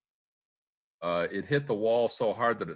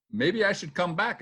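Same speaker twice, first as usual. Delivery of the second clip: timid woman voice; 10 semitones higher, 4 dB louder than usual. Retold or imitated. PR director backing off, voiced.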